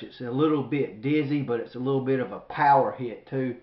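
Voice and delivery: talking through pepper burn; mouth burning from spicy food. Real, not acted. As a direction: push words out past burning throat. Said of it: "my throat is on fire".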